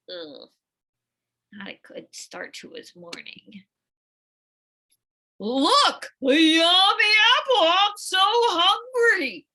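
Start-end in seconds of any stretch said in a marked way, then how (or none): 5.4-9.5 bully gloating over a snack; delighted. Acted. Bully Benny spotting the apple, high loud delight. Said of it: "Benny says, delighted".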